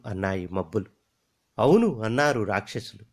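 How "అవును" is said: a loud, higher "అవును"; loud yes. Acted. Demons loudly agreeing with the jewel.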